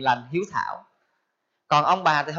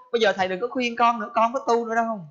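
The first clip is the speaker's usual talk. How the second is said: mild angry refusal; 5 semitones higher, faster than usual. Retold or imitated. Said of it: "Cái giận vô trả thầy trụ trì".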